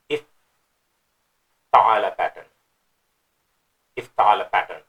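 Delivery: "افتعل" drawn out slowly, each syllable clear; slow pronunciation. Shown as a demonstration. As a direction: sound out افتعل carefully. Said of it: "but it's not أخذ pattern".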